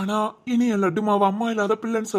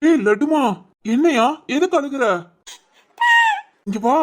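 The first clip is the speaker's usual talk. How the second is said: put-on higher, tender call to a crying child; raised, fussing daddy voice; concerned fatherly coaxing; 5 semitones higher than usual. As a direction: coax the little one, pitched up. Father finds his child crying.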